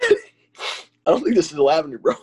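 blocked sinuses, struggling to breathe; stuffy nose. Real, not acted. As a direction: talk through a stuffed-up nose. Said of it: "and now you're struggling".

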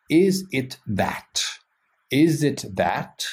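slow, word by word; slow literal translation. Shown as a demonstration. Teacher to French students, giving the literal translation slowly. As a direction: spell out the literal meaning slowly. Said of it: "literally translates to".

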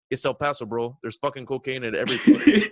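a hint of an El Paso bro; lightly voiced chill friend; laid-back El Paso bro. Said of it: "that's exactly how he talked".

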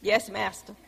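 mock-submissive dog talking; obedient dog voice. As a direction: answer meekly as the obedient poodle. Poodle obeying the husband's command.

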